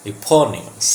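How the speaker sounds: eponymous said as i-PON-i-mus; initial E sound. Shown as a demonstration. Teacher shows the first sound, eponymous as i-PON-i-mus. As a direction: start eponymous with an ee sound, not ay. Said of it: "this is E sound here".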